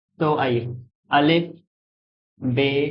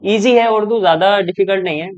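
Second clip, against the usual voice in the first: upbeat reassurance; 3 semitones higher than usual. Real, not acted. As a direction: sell it: Urdu is easy. Teacher reassures students Urdu easy. (ऊँची, ज़ोरदार तसल्ली)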